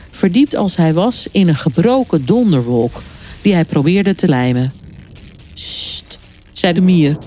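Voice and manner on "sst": soft voiceless shush; hushing. A narrator's reading. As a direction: hush a companion secretly. Ant hushes squirrel near crab. (zacht fluisterend sussen)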